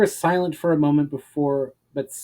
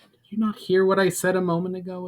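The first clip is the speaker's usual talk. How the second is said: admonishing; 5 semitones higher than usual. Acted. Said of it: "admonished Lyra".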